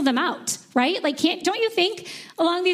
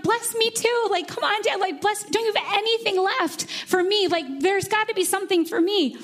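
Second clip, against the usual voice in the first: mild pleading cry; 5 semitones higher than usual. Retold or imitated. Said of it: "he cries bitterly".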